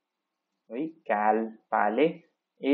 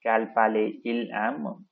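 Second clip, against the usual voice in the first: slow model question. Shown as a demonstration. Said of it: "you can even use the normal form".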